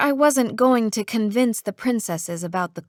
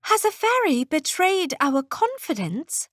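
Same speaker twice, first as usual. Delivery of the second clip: alarmed; 7 semitones higher than usual. A narrator's reading. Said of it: "put her hand to her chest in alarm".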